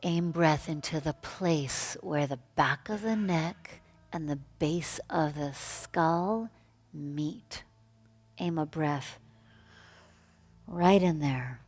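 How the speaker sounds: slow, spacious yoga-teacher guidance; guided meditation. Real, not acted. Yoga teacher guiding breath into the neck, meditative. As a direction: lead them into the breath unhurriedly, with long pauses. Guides the class through pose.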